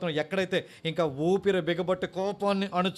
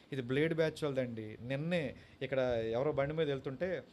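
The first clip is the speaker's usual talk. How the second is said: hushed warning; 3 semitones lower, 5 dB quieter than usual. Retold or imitated. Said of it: "అన్నాడు".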